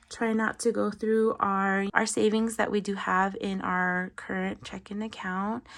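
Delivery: slightly breathless; talking a bit winded; out of breath. Real, not acted. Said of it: "I'm sorry if I sound out of breath".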